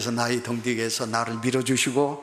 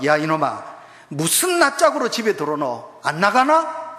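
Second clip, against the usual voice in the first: scolding parent; 2 semitones higher than usual. Retold or imitated. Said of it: "이렇게 말하는 부모".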